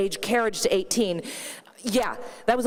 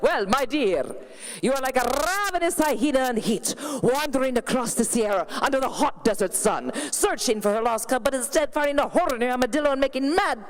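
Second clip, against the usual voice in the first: put-on light Italian accent, rambling florid judge; a hint of Italian flamboyance throughout; Bruno's accent. TV judge critiquing a dancer, lightly Italian accented. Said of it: "he has an accent".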